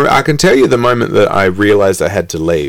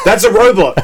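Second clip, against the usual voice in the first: mock robot-denying mum; 10 semitones higher than usual.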